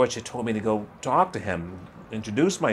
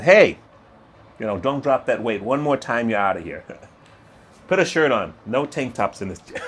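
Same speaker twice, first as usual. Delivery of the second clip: a loud "Hey" over the intercom, then firm gym orders; intercom bark, gym owner; 5 dB louder than usual. Retold or imitated. George the gym owner barking at lifters over the intercom, loud and bossy. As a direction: boss in the gym office shouting rules over the intercom. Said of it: "hit the button on the intercom and say".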